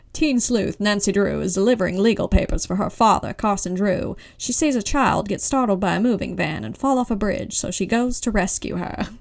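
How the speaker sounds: put-on old-time radio announcer read; 1930s radio announcer. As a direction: read it like a thirties newsreel. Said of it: "nineteen thirties radio announcer voice".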